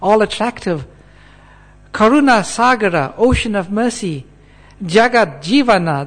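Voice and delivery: emphatic, declamatory recitation in separated phrases; scripture reading aloud. Acted. Preacher declares what all scriptures say, emphatic recitation. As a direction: proclaim each phrase of the verse. Reads out verse translation.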